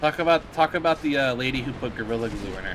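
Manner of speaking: mock pleading. Pleading with Phil for fun news.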